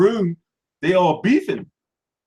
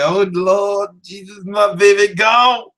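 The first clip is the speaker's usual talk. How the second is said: grieving church mother; 4 dB louder than usual. Retold or imitated.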